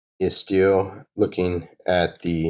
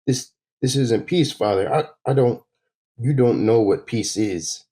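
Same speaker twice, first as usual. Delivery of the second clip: a mild, pained protest pitched higher; upset son; 4 semitones higher than usual. Acted. Son voicing his hurt protest to his father, mildly upset. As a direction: push back at the father, voice rising.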